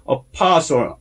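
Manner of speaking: apostle accented on the "po"; stress on second syllable. Shown as a demonstration. Teacher explaining the accent, second syllable of apostle stressed. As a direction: lean on the middle syllable of apostle. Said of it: "오의 액센트가 붙어요".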